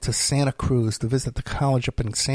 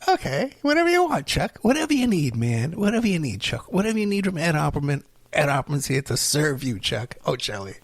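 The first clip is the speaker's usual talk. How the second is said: mock servile; 3 semitones higher than usual. Telling a co-host he'll serve him, in mock grovelling. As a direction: lay on fake eagerness to please, trailing off.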